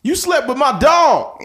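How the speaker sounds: high, slow mock accusation; mock outraged guest. Hillbilly guest accusing partner, high slow mock voice. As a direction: drag it out in fake outrage. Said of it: "acted hillbilly guest accusation".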